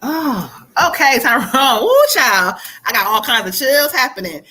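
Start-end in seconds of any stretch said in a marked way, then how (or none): 1.8-2.5 excited whoop. Real, not acted. Chills from the spirit.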